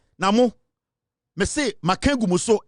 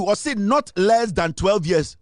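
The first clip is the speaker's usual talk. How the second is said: "not less than twelve years" stretched slowly; slow emphatic warning; much slower than usual. Real, not acted. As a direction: lean on "not" and slow right down. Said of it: "I'm telling you".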